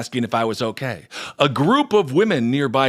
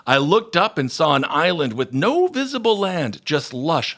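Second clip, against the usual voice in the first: swept-up, higher-pitched reading aloud; dramatic story reading; 3 semitones higher than usual. Acted. Host reading out a listener's near-death story, dramatic. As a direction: tell a near-death vision with wonder.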